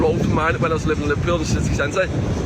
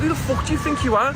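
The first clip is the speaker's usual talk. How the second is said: high-pitched repeat of an outraged challenge; retold fuming; 9 semitones higher than usual. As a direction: act out demanding who she thinks she is. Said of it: "I was fuming".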